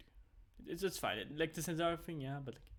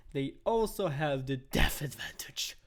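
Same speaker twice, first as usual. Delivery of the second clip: whisper; 8 dB louder, slower than usual. Real, not acted. Whispered aside in analysis.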